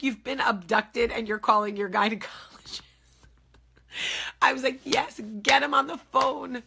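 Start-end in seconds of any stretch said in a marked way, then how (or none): 0.0-2.8 high, louder disbelief; mock the nurse's shock, pitched up; incredulous nurse. Nurse voiced in retold call. 4.8-6.6 high, louder insistence; demanding. Retold or imitated. Demanding the doctor in retold call.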